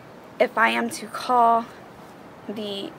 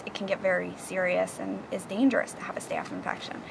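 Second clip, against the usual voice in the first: whispering; 6 dB quieter than usual. Real, not acted. Serious warning about infection.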